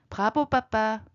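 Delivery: high cub cheering; little bear cheering; excited cheer. Acted. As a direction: cheer papa on with joy. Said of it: "신나서 외칩니다".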